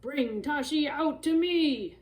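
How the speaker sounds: loud slow giant roar. Acted. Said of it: "the giant roared".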